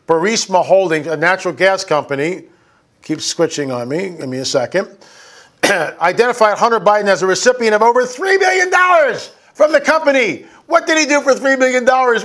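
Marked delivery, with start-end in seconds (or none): 5.6-12.2 raised, indignant shouting over the figures; outraged shout. Real, not acted. Host reading the allegation to viewers, outraged shout. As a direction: shout it out in disbelief.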